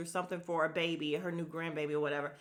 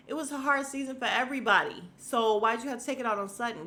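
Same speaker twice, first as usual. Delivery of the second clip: louder, faster, pitched-up retort; indignant rant; 4 semitones higher, 5 dB louder, faster than usual. Real, not acted. Vlogger snapping back at Rinna, loud and quick. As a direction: fire it back fast and hot.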